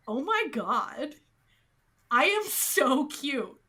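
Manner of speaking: slow, drawn-out self-adoration; smitten with self. Retold or imitated. Heroine admiring herself in the mirror, slowly savoring it. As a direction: draw it out, admiring yourself.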